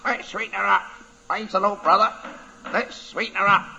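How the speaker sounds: high squawky parrot chant. Acted. Parrot voiced in story.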